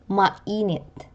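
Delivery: Mainit with stress on the middle -i-; penultimate stress. Shown as a demonstration. Teacher showing penultimate stress, middle syllable stressed in Mainit. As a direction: lean on the second syllable of Mainit. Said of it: "given to the syllable before the last".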